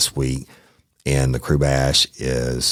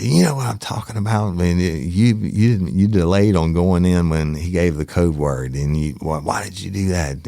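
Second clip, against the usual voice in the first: angry boss; 4 semitones higher than usual. Retold or imitated. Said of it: "chewed my ass".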